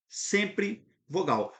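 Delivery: "sempre" drawn out slowly and stressed; slow emphatic sempre. Shown as a demonstration. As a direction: lean long on "sempre", then land on vogal. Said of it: "Letra A". ("sempre" dito devagar, bem enfático)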